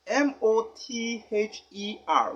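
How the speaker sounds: letters spelled out one by one, slowly. Shown as a demonstration. Teacher to pupils, spelling mother letter by letter.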